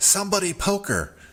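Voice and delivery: very high, shrill gnome holler. Voicing a gnome during a fight with geese: gnome yelling. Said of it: "you hear one of the gnomes yell".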